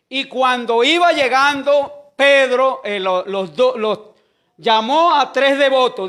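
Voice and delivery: loud preacher's delivery with drawn-out key words; preaching. Real, not acted. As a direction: proclaim the Bible story to the congregation. Preaches the story loudly.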